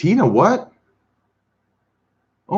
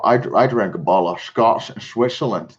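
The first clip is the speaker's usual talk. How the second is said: Sean Connery impression. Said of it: "how Yannick sounds drunk".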